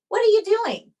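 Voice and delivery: high, loud alarmed call of what are you doing; alarmed question. Retold or imitated. Spender calling her as she runs, alarmed. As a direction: sound startled by what she's doing. Spender calls mid-escape.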